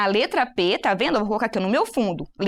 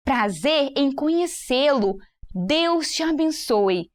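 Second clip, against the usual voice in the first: slow demo; 2 semitones higher, slower than usual. Shown as a demonstration. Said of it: "A próxima frase é".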